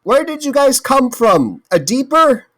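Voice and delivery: high-pitched, worked-up question; urgent questioning. Acted. Questioning kobolds in character.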